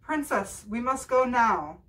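high, loud impatient call; shouting. A narrator's reading. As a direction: call out loudly, hurrying her. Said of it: "the prince shouted".

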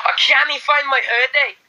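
high mock Scottish; Scottish accent. Complaining about a lost hoodie, high mock Scottish. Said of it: "Scottish accent".

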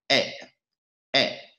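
short "E", quickly cut off. Shown as a demonstration. Teacher reviews the short sound, short relaxed E. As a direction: drop a brief, relaxed "E". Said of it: "Âm ngắn".

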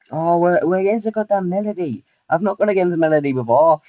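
alarmed surprise. Real, not acted. Alarmed at facing Melody.

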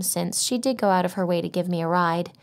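ordinary delivery, nothing marked

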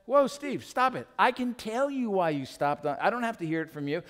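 high-pitched acted protest; exasperated interruption. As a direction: cut off his excuse as a fed-up wife. Wife cuts off his excuse.

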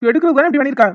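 loud furious demand, hurled at the impostor; angry shout. Acted. Caterer yelling at the impostor who faked a cockroach, angry shout. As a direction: yell at him, outraged.

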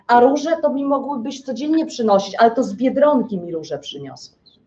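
lekko zagrana zrzędliwa żona; pretensje żony. Acted. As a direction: wypomnij mu tanie róże z przekąsem. Żona wypomina mężowi tanie róże. (żona z wyrzutem do męża o róże z Biedronki)

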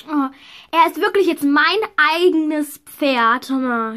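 usual speaking voice

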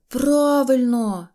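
high, loud, long-drawn cheer; delighted. Acted. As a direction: agree joyfully, stretching the word out. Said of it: "зрадів Пончик". (радісний протяжний вигук)

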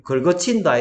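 a light Gyeongsang dialect quote. Shown as a demonstration. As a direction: say it with Gyeongsang intonation. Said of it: "경상도 사투리로". (경상도 사투리 억양으로)

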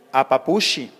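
"apapushi" con la consonante aspirada, al estilo de Sonora; ese aspirada norteña. Retold or imitated. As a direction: imita el habla de Chihuahua en "apapushi". (pronunciación norteña)

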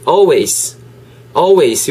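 always with a silent L, opening on "aw"; pronunciation model. Shown as a demonstration. Teacher asking learners to repeat, always without the L. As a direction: say always as "aw-ways" for repetition. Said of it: "Re-, repeat after me".

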